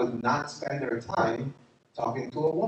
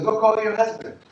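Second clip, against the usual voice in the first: Jesus commanding; 8 semitones higher, 6 dB louder than usual. Retold or imitated. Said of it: "He goes".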